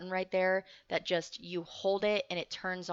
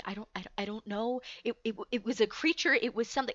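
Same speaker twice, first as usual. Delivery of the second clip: retold fast, stammering fright; mildly panicked, halting rush of words; worked up; 2 semitones higher, faster than usual. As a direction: stumble quickly over the words, trying to explain. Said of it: "I get worked up again".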